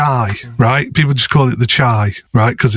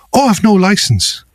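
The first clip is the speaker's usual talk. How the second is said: slow, higher mock Irish accent; 6 semitones higher than usual. Irish friend confessing during the driving lesson, mock Irish accent. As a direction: put on a light Irish voice, slow and offhand. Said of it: "my Irish friend".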